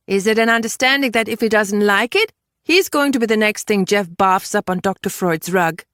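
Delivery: lightly voiced, pointed questioning; questioning woman in the story. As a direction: press for a straight answer. Voices a character challenging another.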